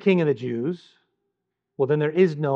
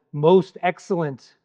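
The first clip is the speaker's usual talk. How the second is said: deferential address; 2 semitones higher, slower than usual. Shown as a demonstration. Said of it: "Paul calls him".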